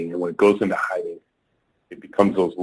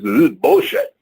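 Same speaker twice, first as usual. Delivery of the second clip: higher-pitched mock yell at the speaker; retold yell; 9 semitones higher, 4 dB louder than usual. Marketing VP yelling at the speaker in a meeting, a retold mock yell. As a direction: snap it out like an angry VP, retold. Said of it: "he kinda yelled it out".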